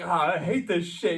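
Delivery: slow, high, loud disgusted complaint; loud high griping, drawn out; changed voice. Retold or imitated. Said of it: "And then he changes his voice".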